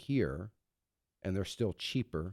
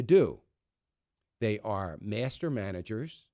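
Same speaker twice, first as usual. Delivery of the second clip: sarcastic. Real, not acted. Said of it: "obviously I'm being sarcastic".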